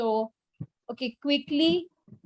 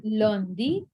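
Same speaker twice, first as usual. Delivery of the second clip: deliberate word-by-word pronunciation for note-taking; teacher dictating, one word at a time; careful dictation; slower than usual. Shown as a demonstration. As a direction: model each French day slowly, rising at the end. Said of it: "I'll repeat again from lundi".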